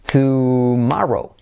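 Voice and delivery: "tomorrow" stretched out, tu-MA-ro; drawn-out "tomorrow" with open A; slow repeat-after-me model. Shown as a demonstration. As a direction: slowly model "tomorrow" for learners. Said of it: "Ya, repite conmigo".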